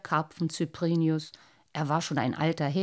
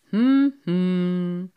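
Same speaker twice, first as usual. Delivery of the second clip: musing; 7 dB louder than usual. A narrator's reading. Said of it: "sprach er schließlich".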